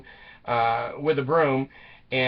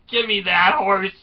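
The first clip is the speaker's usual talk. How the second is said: raised, higher-pitched order; mock urgent demand; 5 semitones higher, 4 dB louder than usual. Wife wanting out of town, mock urgent demand. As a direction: play the fed-up wife demanding. Wife wants to flee, first try.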